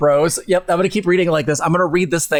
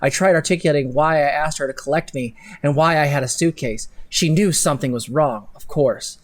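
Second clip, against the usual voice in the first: dramatic story reading. Acted. Reads her fanfic with drama.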